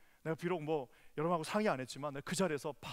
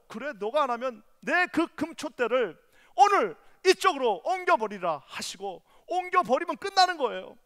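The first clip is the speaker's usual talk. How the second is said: loud, high impassioned sermon shout; fiery revival preaching; preaching at full force; 9 semitones higher, 15 dB louder than usual. Acted. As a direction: preach it out to the whole hall.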